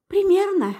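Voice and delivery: a smirking, crooked reply; wry smirk. A narrator's reading. Oldrik answers Mara with a mild wry smirk. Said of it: "криво ухмыльнулся Олдрик".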